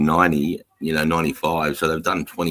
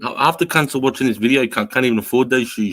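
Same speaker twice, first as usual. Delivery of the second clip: higher heated mock rant; 7 semitones higher than usual. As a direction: rant it at him, worked up. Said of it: "I'm like".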